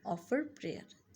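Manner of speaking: slow, careful model phrase. Shown as a demonstration. Teacher modelling the phrase slowly. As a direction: say it slowly for the class. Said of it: "नमाज अदा करना".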